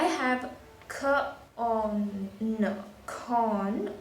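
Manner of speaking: k, on, n said separately, then blended into con; sounded out. Shown as a demonstration. Teacher showing the sounds in a word, sounded out. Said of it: "say for example, in this word".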